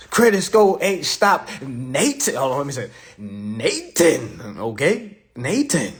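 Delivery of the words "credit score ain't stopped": loud boast. Real, not acted. Boasting proudly to crowd.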